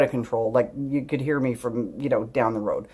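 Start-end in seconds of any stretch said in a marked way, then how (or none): none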